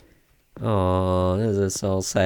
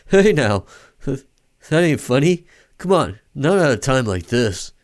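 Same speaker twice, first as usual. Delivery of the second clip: upset disbelief; 3 semitones higher, 6 dB louder than usual. Acted. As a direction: protest loudly, refusing to believe it. Character refuses to believe the death.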